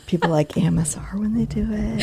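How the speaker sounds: fast breathy ASMR whisper. Shown as a demonstration. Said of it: "we can really whisper".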